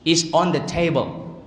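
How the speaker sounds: table said slowly with a precise t; careful English pronunciation. Shown as a demonstration. Teacher models correct pronunciation of table, slow and precise. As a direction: finish on a carefully articulated table. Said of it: "Pakai gini nih kalau belajar pronunciation".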